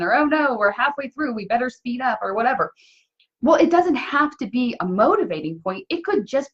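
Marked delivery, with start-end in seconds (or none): 0.1-2.2 higher, lightly acted fretting; a playful touch of urgency; mock dismay. Voicing worry about falling behind.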